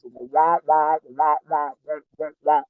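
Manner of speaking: lightly voiced muffled wah wah, like a teacher heard through a trombone; a hint of the droning cartoon teacher; Charlie Brown adult voice. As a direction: mimic grown-ups in the cartoon, only half-heartedly. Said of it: "the doctor was sounding like Charlie Brown".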